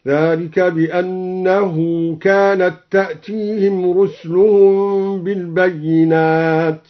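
"رسلهم" with silent sin, ruslahum, slow; Quranic recitation. Shown as a demonstration. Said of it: "سكن السين من قوله تعالى رسلهم". ("رسْلهم" بتسكين السين)

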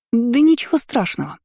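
high-pitched, reassuring chirp; encouraging squeak. A narrator's reading. Mila consoling the mage, high encouraging squeak. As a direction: squeak it out to cheer him up. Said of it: "ободряюще пропищала Мила".

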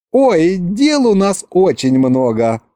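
put-on high, drawn-out eager girl; perked-up excitement. A narrator's reading. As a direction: brighten up at all the planning ahead. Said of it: "оживилась Маша".

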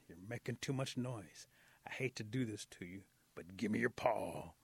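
lightly voiced wolf giving a measured warning; stern wolf. Wolf threatens rabbit, demands paw.

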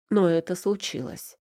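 plain reading voice

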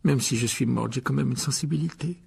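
mildly wounded, sobbing voice; tearful. Acted. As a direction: complain with a touch of tears. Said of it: "dit Mimi d'une voix sanglotante". (légèrement larmoyant, vexé)

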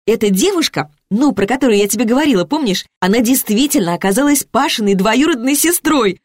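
put-on high, eager girlfriend gossip; excited chatter. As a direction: bubble over with happy news. Liza gushing about her date.

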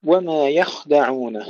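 يخدعون with a clearly heavy kha. Shown as a demonstration. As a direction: recite يخدعون thickening the kha. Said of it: "تفخيم الخاء يجب أن يكون أيضًا واضحا". (يخدعون بتفخيم الخاء بوضوح)

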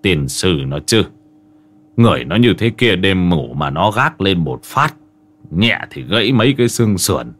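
low, fed-up grumble; understated exasperated uncle; weary dismay. Acted. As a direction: grumble to yourself, mildly appalled. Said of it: "ông Hải ngao ngán".

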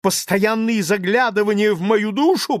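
high, loud, near-hysterical shout. A narrator's reading. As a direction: scream it out, shaking with nerves. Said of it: "продолжал Лаевский". (кричит в истерике, высоко и громко)

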